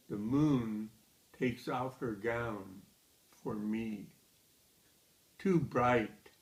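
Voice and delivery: measured poem recital with deliberate pauses; poetry reading. Acted. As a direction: read the poem line by line, letting each phrase stand. Reads second poem aloud.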